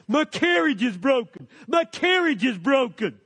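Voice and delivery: repeated whiny moan about the broken carriage; murmuring complaint. Retold or imitated. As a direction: grumble it like a self-pitying traveller. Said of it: "when they murmur about their circumstance".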